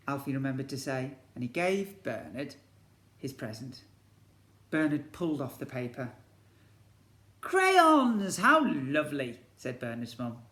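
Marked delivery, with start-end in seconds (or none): 0.1-6.1 lively picture-book storytelling; story narration. A narrator's reading. Teacher reads to year one in storybook narration. 7.4-9.4 high, loud gushing; delighted hostess. Acted. Bernard's mum admires the crayons, gushing.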